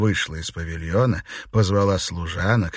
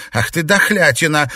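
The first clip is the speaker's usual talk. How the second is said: higher, louder mock anger; a touch of real annoyance, louder; angry; 7 semitones higher, 6 dB louder than usual. A narrator's reading. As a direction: snap at her half in jest. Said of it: "рассердилась Фэнзе".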